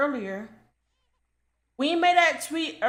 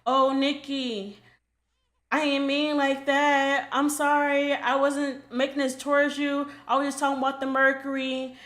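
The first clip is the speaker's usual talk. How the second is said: nice apology demo; 3 dB quieter than usual. Shown as a demonstration. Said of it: "Say it in a nice way".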